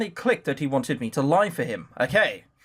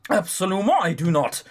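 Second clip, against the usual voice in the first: put-on French accent. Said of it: "I do the ridiculous accent".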